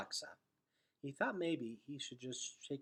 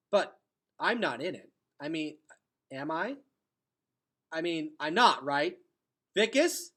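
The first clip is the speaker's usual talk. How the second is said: louder, higher, rushing denial; panicked; 5 semitones higher, 13 dB louder than usual. Acted. Gregor panicking, begging Vicus he's not in the prophecy, loud and high. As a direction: voice climbing in panic as he pleads. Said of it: "feeling panic rise up in him".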